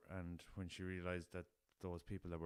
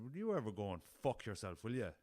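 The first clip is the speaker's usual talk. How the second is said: full common coarse; 3 semitones higher, 7 dB louder than usual. Retold or imitated. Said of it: "went full Westeros Common".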